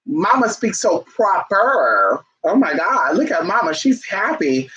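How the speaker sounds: imitating a child. Child gushing over happy mama, a light mock kid voice. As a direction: coo like a small kid praising mama. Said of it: "and they say".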